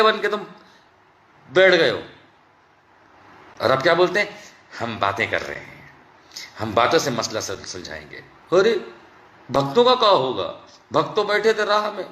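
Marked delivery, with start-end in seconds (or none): 4.8-8.2 low, softer timid mimicry; mock meek quote. Mocking the government's timid talk-it-out line. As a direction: parrot their feeble excuse meekly.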